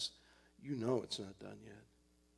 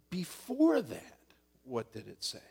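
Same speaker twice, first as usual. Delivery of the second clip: inner voice; 4 dB louder than usual. Acted. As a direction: press gently for the earlier verse. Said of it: "the voice said".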